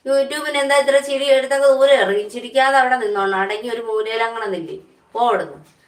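loud telling-off, easing toward the end; playful loud reprimand; mock scolding. Real, not acted. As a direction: scold someone for laughing, starting loud. Scolds YouTube for laughing.

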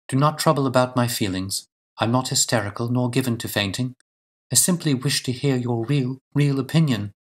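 a hint of a composed, insistent lady; lightly voiced resolute lady. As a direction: lightly play a lady asking for candour.

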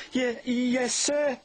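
high, faltering yes sir; nervous stammer. Acted. Percy answering the Fat Controller with a stammer. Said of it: "Percy answered".

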